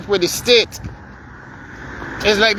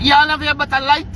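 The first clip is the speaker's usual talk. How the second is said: incredulous; 4 semitones higher than usual. Real, not acted. Indignant challenge to diver's excuse.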